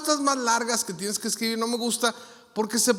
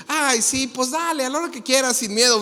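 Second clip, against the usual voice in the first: higher-pitched carefree acted reply; breezily content; 4 semitones higher than usual. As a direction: take up the challenge cheerfully. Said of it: "bien contento". (bien contento, tono agudo)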